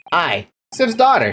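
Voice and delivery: Scots warder voice; Scottish accent. Acted. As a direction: say it like a Glasgow local. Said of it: "I can't do that voice forever".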